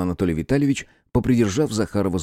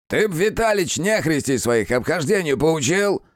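smirking jibe; 9 semitones higher than usual. Acted. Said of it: "ухмыльнулся Клим".

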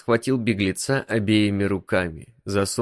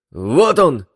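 loud excited yell, pitched up; 6 semitones higher, 9 dB louder than usual. A narrator's reading. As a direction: shout out as he spots it. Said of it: "завопил лабиринт".

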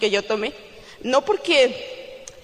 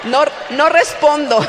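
louder, laughing through the words; 5 semitones higher, 10 dB louder, slower than usual. Real, not acted. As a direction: laugh it out at the joke. Laughing at her own joke. (riendo a carcajadas)

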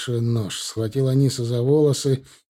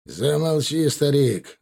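angry; 3 semitones higher, slower than usual. Acted. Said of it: "зло скривился Аллахдад".

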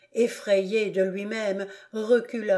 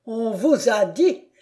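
bitter mocking repeat; 3 semitones higher, 4 dB louder than usual. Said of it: "répéta le comte".

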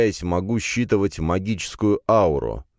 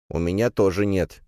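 ordinary delivery

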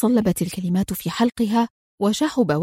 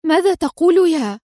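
higher, louder outraged cry; a high indignant exclamation; 6 semitones higher, 3 dB louder than usual. A narrator's reading. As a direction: protest in disbelief. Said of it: "وهتفت في استنكار".

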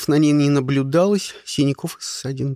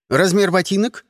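mock official bark; 5 semitones higher, 4 dB louder than usual. A narrator's reading.

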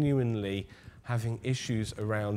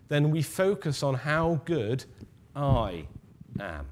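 I set apart and lingered on after a pause; stress on I. Shown as a demonstration. Preacher to congregation, stressing I in "how good I am". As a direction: lean on I, not on good. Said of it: "Notice the emphasis is on the I".

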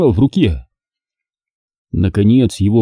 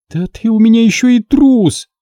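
higher, louder scornful jab; contemptuous; 12 semitones higher, 4 dB louder than usual. Acted. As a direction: sneer at the coward. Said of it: "сморщилась Алёна".

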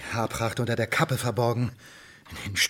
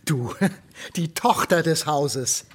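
slow, laughing through the words; mock her with a chuckle; sarcastic amusement; laughing scorn; 3 semitones higher, slower than usual. Father mocks daughter's farm muscles.

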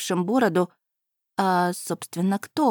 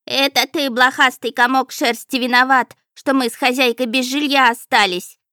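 higher, louder scolding yell; strained yelling; 5 semitones higher, 6 dB louder than usual. A narrator's reading. The house spirit yells at the flea-bitten cat, straining. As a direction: bawl at the cat, hoarse with effort. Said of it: "надсадных воплей возле уха".

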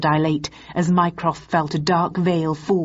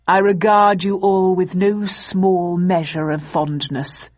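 booming ideological slogans. Acted. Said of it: "I feel a speech coming on".

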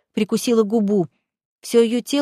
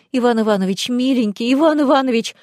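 frantic, repeating his name; mild fevered plea; feverish pleading; 3 semitones higher than usual. Acted. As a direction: call his name in rising panic. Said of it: "лихорадочно твердила Боженка".

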